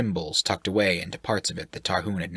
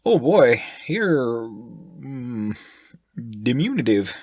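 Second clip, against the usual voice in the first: brash sailor voice; 4 semitones higher, slower than usual. Acted. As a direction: fire questions like a brash sailor. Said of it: "attempting to use large words".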